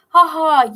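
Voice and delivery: high, loud cruel "ha ha"; mocking laugh. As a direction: laugh down at him. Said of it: "threw her head back and laughed".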